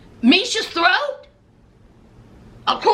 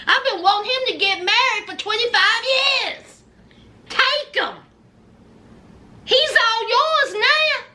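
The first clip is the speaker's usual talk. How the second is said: 1 pleading mama; 4 semitones higher than usual. Retold or imitated. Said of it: "Mama Nikolai saying".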